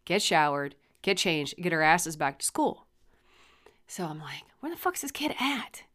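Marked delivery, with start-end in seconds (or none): 4.6-5.8 higher-pitched irritated muttered question. Retold or imitated. Parent waiting in the truck for a missing kid, irritated. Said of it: "I'm getting irritated at this point".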